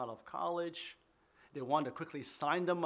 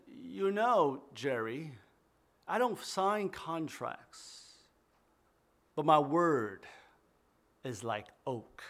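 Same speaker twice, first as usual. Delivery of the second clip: put-on light Midwestern accent, slow and firm; a hint of a Midwestern father; slower than usual. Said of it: "with a Midwestern accent".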